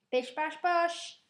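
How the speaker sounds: slow playful sign-off voice; catchphrase sign-off. Pretend. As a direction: toss off a cheeky catchphrase. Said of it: "I don't know why I did that".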